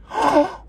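high, quick gasp; surprised gasp. Real, not acted. Player finding a bag as loot, surprised gasp. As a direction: gasp at an unexpected gift.

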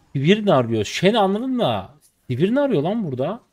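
real disbelief at what he sees; surprised. Real, not acted. Gamer reacting to an enemy appearing mid, baffled and loud.

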